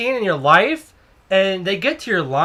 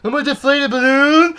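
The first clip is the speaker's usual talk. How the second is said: high, far-from-usual rising question; mock outraged squeal; 7 semitones higher, 4 dB louder than usual. Cashier replying to the customer's fff, high mock disbelief. Hammed-up repeat of puzzled reply.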